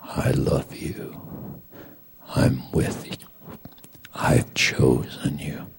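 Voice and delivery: soft, spaced-out words of God's love; little inner voice. Retold or imitated. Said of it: "this other little voice that's going".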